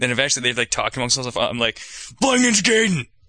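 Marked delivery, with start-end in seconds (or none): 2.2-3.0 put-on very high, loud, cranky old-man voice. Retelling the answer to staring onlookers, imitating a grumpy old man. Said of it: "like the grumpiest old man ever".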